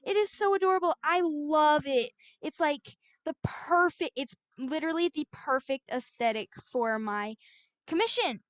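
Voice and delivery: high, gushing mock praise; gushing client. Client gushing over the art style, high mock excitement. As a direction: gush like an overjoyed client. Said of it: "And he is like".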